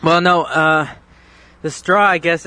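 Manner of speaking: breathless after chugging; out of breath. Real, not acted. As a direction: catch your breath between words. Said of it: "I'm out of breath".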